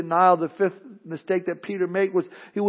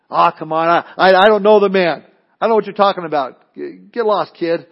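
mock brush-off, stammering and louder; dismissive denial; 7 dB louder than usual. Peter denying Jesus to a servant girl, dismissive. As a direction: wave off a pestering kid with a touch of bluster.

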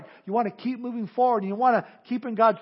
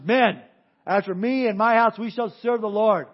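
a louder, ringing declaration; rallying proclamation; 5 dB louder than usual. Retold or imitated. Joshua vowing before his men, loud and ringing. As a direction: Joshua rousing the troops with his vow.

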